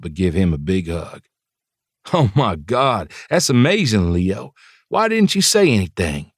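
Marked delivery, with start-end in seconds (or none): 2.1-6.3 excited. Acted. Excited praise to student.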